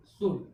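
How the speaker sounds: शूड with no L sound; silent L. Shown as a demonstration. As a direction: say शूड as "shood", skipping the L. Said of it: "कितने का हम लोग pronunciation किए".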